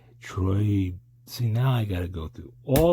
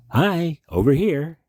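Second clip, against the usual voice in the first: a lightly voiced creepy mystery man, pitched higher; mystery man imitation; 9 semitones higher, 3 dB louder than usual. Fan imitates the mystery man greeting Robert Blake, lightly creepy. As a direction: lightly mimic the Lost Highway mystery man's eerie greeting. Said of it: "you acted like this".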